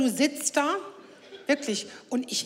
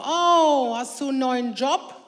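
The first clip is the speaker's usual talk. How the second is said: loud "Oh" then a fake innocent question; mock surprise; 5 dB louder than usual. Mother teases her son about his driving, mock surprise. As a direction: feign astonishment to tease him.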